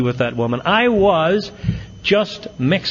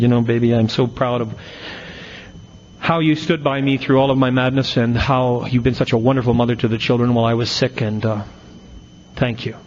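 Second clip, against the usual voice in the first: soft reassuring voice; 3 semitones lower than usual. Retold or imitated. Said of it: "say in a very soft and reassuring voice".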